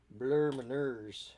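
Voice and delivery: drawn-out mock French accent; slow, silly French vowels on "blur my nerves"; ridiculous French accent. Stepping away to blow the nose, in a ridiculous French accent. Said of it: "that is my ridiculous French accent".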